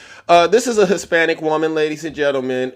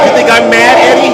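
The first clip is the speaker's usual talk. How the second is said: angry shout; 8 semitones higher, 9 dB louder, faster than usual. Real, not acted. Repeats taunt, shouting.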